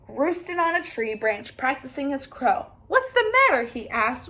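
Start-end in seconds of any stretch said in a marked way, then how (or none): 2.9-3.6 high, loud rooster call. Acted. Cocky Locky calls down from his branch, high and loud. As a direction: crow out the question.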